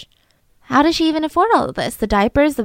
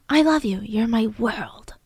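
tender mock caption; 4 dB quieter than usual. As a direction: croon it like a doting mother. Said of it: "You know?".

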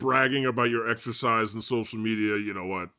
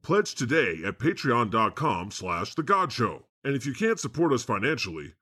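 a lightly voiced God reading a sponsor plug; mock podcast ad read. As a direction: read the Patreon plea like a smooth announcer.

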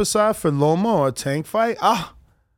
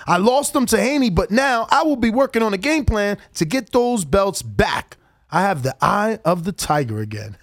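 Kambosos. Retold or imitated. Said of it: "I just love your, uh, accent you do".

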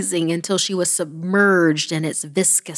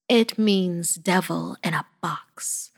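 slow, grave granny statement; solemn. Acted. Granny revealing the box's meaning, solemn and slow. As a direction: let it land heavy and slow. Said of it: "she stated solemnly".

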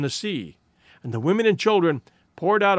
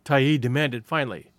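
ordinary delivery

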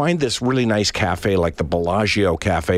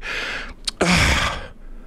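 1 exasperated sigh; 9 semitones higher than usual. Retold or imitated. Waitress sighs before answering.

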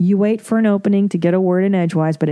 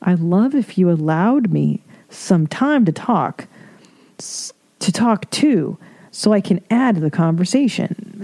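stilted mock politeness. Reader mocking how nobody talks to family, stilted politeness. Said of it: "Nobody talks like that".

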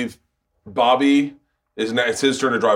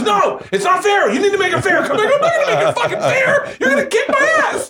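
laughing; 3 dB louder than usual. Retold or imitated. Quoting friend demanding fair fight.

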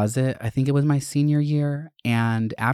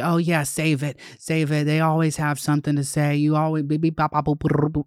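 dismissive principal; 5 semitones higher than usual. Retold or imitated. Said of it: "he's like".

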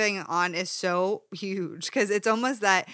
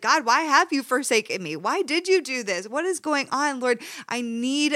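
higher and louder desperate cry to God; anguished plea; 5 semitones higher, 3 dB louder than usual. Retold or imitated. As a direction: plead with God as if in tears. Praying through tears, voiced cry.

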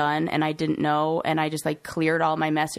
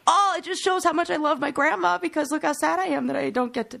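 self-comforting; 11 semitones higher than usual. Retold or imitated. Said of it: "So I'm just like".

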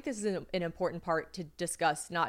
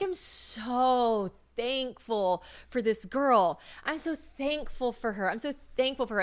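drawn-out, higher gushing gratitude; lovey-dovey; 5 semitones higher than usual. Retold or imitated. Retelling her high gratitude for this girl, lovey-dovey gushing. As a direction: gush with blissed-out thankfulness. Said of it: "you're in your lovey-dovey stage".

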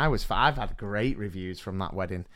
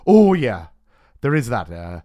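Adam Jones; 2 semitones higher, 4 dB louder than usual. Retold or imitated. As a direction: imitate a Welshman playing along, accent laid on thick. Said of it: "And then Adam Jones".

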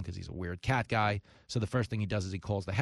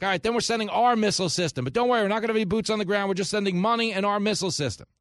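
higher, louder, falsely soothing; mock reassurance; 10 semitones higher, 5 dB louder, faster than usual. Host mocking Washington's promises about Ukraine, sarcastic reassurance. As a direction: sarcastically parrot the official line. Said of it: "Then we're like".

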